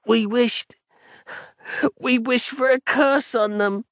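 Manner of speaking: put-on high, tearful child's voice, pleading; a desperate child begging through tears; crying in despair. A narrator's reading. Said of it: "the boy cried out in despair".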